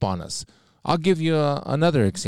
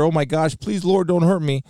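mock fear; 5 semitones higher than usual. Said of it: "not a fear".

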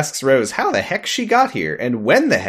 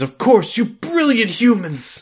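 slow, grand, higher mock Doctor voice; 9 semitones higher, slower than usual. Podcaster quoting the Doctor to cohost, hammed-up and grand. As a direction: ham up the Doctor praising humans.

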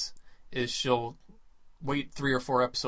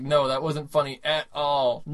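unamused anger; 5 dB louder, slower than usual. Retold or imitated. Imitates angry girlfriend's reply to boyfriend.

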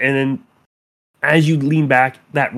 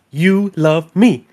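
clingy obsessed lover; slower than usual. Acted. GM voices obsessive girl poking.

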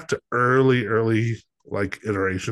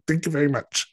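foreign man voice; 4 semitones higher than usual. Retold or imitated. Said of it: "that kind of character".

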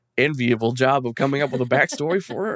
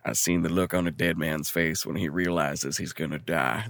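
quote read out; 6 semitones lower, 6 dB quieter than usual. Shown as a demonstration. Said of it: "the quote is".

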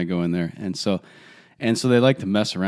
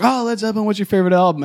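librarian voice; 11 semitones higher, faster than usual. Retold or imitated. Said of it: "he's like".

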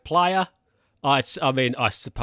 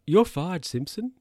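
imitating the boss firing; 7 semitones higher than usual.

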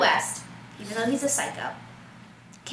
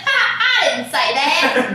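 giggling denial; 6 dB louder than usual. Retold or imitated. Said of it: "She was giggling".

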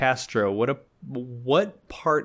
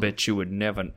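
Southern gentleman; 4 semitones lower, 4 dB quieter, faster than usual. Acted. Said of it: "this Southern gentleman".

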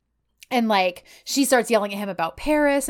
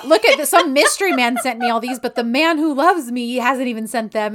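mock complaint; 2 semitones higher, 4 dB louder than usual. Drunk woman complains he never sent gifts, mock indignation. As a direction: play up a drunken grievance.

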